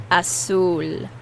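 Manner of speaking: Azul with the weight on the U; stress on U. Shown as a demonstration. Teacher showing the stress in Azul, U emphasised. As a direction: lean on the U in Azul. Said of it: "You put more emphasis on the U".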